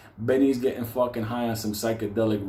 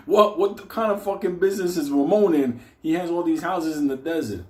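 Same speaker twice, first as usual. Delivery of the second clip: mock alarmed; 8 semitones higher, 5 dB louder than usual. Alarmed wondering.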